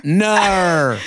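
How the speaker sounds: drawn-out mock-Aussie "Nar"; Australian accent. Shown as a demonstration. Trading attempts at no, fake Australian accent. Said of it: "say no in an Australian".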